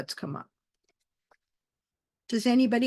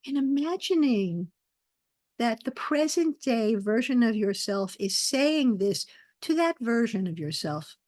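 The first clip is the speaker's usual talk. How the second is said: guided meditation. Acted. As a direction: lead them gently into the breath, unhurried.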